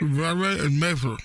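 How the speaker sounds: talking through a full mouth; words muffled by gauze. Pretend. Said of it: "I have stuff in my mouth".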